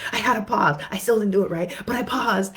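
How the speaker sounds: excited client. Retold or imitated. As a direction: announce the win with glee. Client reporting progress proudly.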